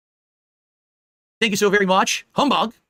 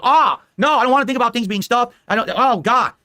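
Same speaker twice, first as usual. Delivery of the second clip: mock squeamish; 4 semitones higher, 3 dB louder than usual. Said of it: "It's like".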